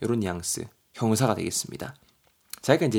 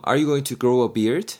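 "Are you going to grow a beard?" read very slowly and clearly; slow example read; 2 semitones higher, 4 dB louder, much slower than usual. Shown as a demonstration. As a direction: spell it out slowly for learners. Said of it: "A가 말하고 있죠". (아주 천천히 예문 읽기)

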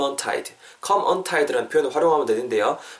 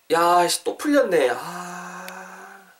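mock exasperation, higher then sighing out; exasperated; 4 semitones higher, much slower than usual. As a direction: grumble and let out a long, fading groan. Acted annoyance at untied laces.

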